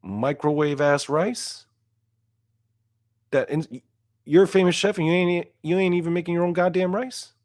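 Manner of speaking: can't believe the famous chef uses instant rice; incredulous high-pitched rant; outraged disbelief. Real, not acted. Ranting at the chef's instant rice.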